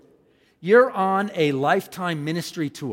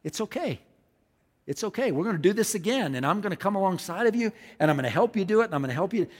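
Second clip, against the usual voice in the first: higher, kind encouragement; reassuring vibe; 3 semitones higher, faster than usual. Acted. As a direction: promise to stand alongside them. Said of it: "I like the vibe that says to me".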